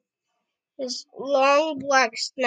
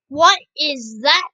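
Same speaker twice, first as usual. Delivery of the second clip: venomous; 6 dB louder than usual. Acted. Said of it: "his voice loaded with enough venom".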